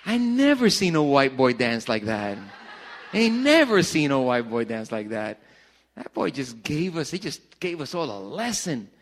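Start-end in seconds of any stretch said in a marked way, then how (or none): 3.1-5.4 laughing through the words; amused laugh while repeating. Real, not acted. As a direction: crack up as you say it again.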